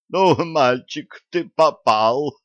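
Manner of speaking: menacing granny. A narrator's reading. Granny threatens wolf.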